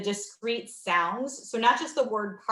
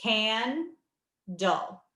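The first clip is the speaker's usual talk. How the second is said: syllables slowly. Shown as a demonstration. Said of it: "give you these syllables slowly".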